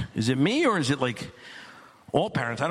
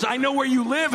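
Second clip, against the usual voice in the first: menacing deer threat; 7 semitones higher than usual. Retold or imitated. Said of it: "he goes".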